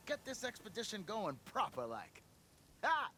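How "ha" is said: high, loud, slow rallying cry; rally the crew with gusto; rousing cheer. Acted.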